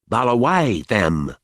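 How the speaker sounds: slow, disgusted, spitting the word Balawai; spat out in disgust. Acted. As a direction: spit it out like rotten meat. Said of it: "as if she were spitting out a hunk of rotten meat".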